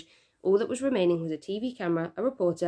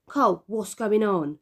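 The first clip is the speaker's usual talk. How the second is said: close to tears; 3 semitones higher, 5 dB louder, slower than usual. A narrator's reading. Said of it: "said Mum, close to tears".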